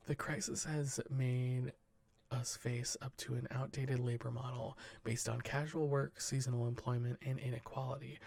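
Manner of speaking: steady newsreader delivery; news read. Acted. Podcast host reading the headlines to cohosts, newsreader style. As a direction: read the wire report to the cohosts, measured news voice. Reads news stories aloud.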